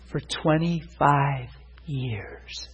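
slow, weighted words; drawn out. Real, not acted. Preacher tells church how long she suffered, drawn out. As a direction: stretch each word out slowly. Dwells on her long affliction.

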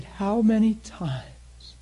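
lightly voiced God, almost a whisper; God's hushed voice. God quietly tells Dan his words, in a soft whisper. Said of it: "He said".

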